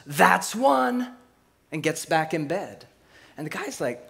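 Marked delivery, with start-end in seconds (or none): 0.1-1.1 higher, louder call out the window; hammed-up cowgirl yelling at the dog; mock shout. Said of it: "opens the window and shouts".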